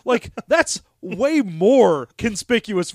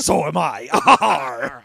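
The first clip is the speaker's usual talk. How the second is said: slow, knowing "So am I"; answering the gay pirate joke, slowly; slow camp reply; 4 semitones lower, much slower than usual. Pretend. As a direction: drag it out with a wink.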